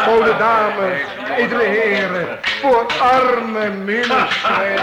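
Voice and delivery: slow, drawn-out street-singer's call; beggar's plea. Acted. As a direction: cry out for alms like a wandering minstrel. Minstrel begging with alms bowl. (smekende roep van een bedelende speelman)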